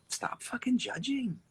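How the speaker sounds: high, squeaky mock scold; hammed-up high whiny nag. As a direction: pitch it way up to tease.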